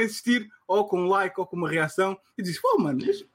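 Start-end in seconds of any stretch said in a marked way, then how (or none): 2.6-3.2 annoyed brush-off. Retold or imitated. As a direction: wave them off, fed up. Voicing annoyed reply to clingy chatter.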